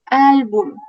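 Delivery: álbum with the first syllable AL stressed; stress on penultimate syllable. Shown as a demonstration. Teacher shows where the tilde falls in álbum, stressing AL. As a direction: lean on AL in álbum. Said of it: "y la penúltima".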